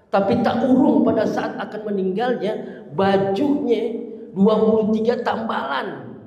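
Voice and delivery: emotional telling. Real, not acted. Preacher moved by Khadijah's patched dress, near tears. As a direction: stretch it out as if holding back tears.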